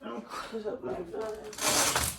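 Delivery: soft slow whisper; breathy hushed half-voice. Real, not acted. Whispering, closing blinds.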